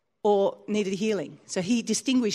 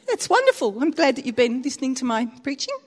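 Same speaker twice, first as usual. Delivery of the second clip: high-pitched, hammed-up congratulations; polite mock praise; 3 semitones higher than usual. Preacher congratulates Russian man on his testimony, mock polite praise. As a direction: act out politely approving a testimony.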